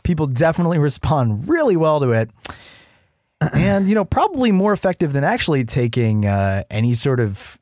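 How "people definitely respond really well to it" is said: sarcastic. Acted. Sarcastic praise of strategy.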